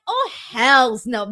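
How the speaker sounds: slow, drawn-out outraged no; drawn-out indignant reaction to a lame reveal; indignant disbelief. Retold or imitated. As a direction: refuse the idea outright. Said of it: "And I thought".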